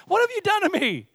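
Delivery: high-pitched indignant demand; sharp accusation. Acted. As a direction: confront him as a wronged king. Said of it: "accused him sharply".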